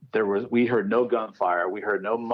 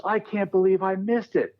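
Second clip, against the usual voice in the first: mock frustrated friend; 9 semitones higher than usual. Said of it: "He was so pissed".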